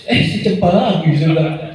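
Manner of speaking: chuckling as he says it; amused laugh through the words. Real, not acted. Preacher amused telling the congregation about Cempaka, laughing lightly.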